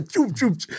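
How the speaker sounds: rapid-fire "choo" bursts; imitated stage sound effect. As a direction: toss off the stage-effect noise. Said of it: "They did the whole choo".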